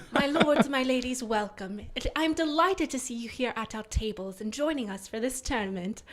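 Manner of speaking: a hint of a sweet fairy tale princess; princess greeting. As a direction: lightly welcome the court as a princess. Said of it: "do the princess voice".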